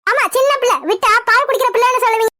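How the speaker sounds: mildly angry, mocking retort; irritated sarcasm. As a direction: throw it back with a touch of annoyance. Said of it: "இவ்ளோ கோவம் ஆகக்கூடாதுதா". (லேசான கோபத்துடன் நக்கலாக)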